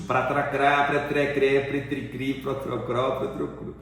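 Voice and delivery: "pratracrá, pretrecré, pretricri" rattled off as a tongue-twister drill; articulation drill. Shown as a demonstration. Coach shows student a speech-therapy exercise, demonstrating articulation drill. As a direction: run "pratracrá" through the vowels to "protrocru", each cluster articulated. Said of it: "é um exercício de fonoaudiologia".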